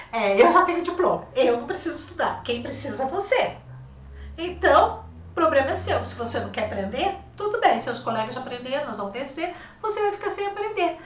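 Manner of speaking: high, loud, firm scolding; stern teacher. Retold or imitated. Teacher scolding a rebellious pupil, stern and loud. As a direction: lay down the law to a defiant pupil. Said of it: "eu tive que ser dura com ela".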